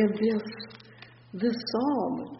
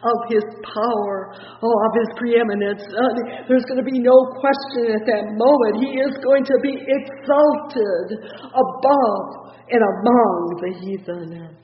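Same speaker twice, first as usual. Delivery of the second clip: preaching climax; 3 semitones higher, 9 dB louder than usual. Real, not acted. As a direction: drive it up to the climax.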